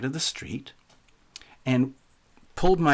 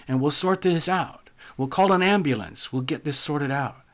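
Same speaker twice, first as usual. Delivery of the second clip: raised pitch, pressing to help; higher voice, reasoning with someone distressed; urgent offer of help; 5 semitones higher than usual. Retold or imitated. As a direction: act out an anxious bystander's pleading. Retelling himself pleading with injured man.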